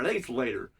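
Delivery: normal talking voice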